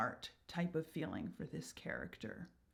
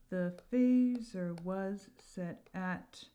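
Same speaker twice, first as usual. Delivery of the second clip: slow verse reading; much slower than usual. Shown as a demonstration. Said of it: "We got a trochee".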